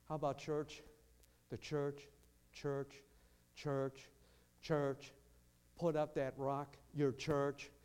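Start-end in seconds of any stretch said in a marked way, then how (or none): none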